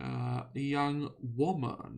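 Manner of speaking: slow, drawn-out, even deadpan reading.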